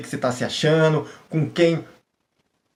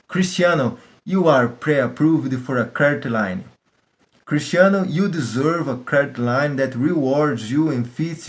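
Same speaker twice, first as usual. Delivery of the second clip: slow, deliberate reading of the letter; practice reading aloud; slower than usual. Shown as a demonstration. He reads the bank letter aloud, slow drill. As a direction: read it slowly aloud like a drill. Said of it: "faz assim, ó".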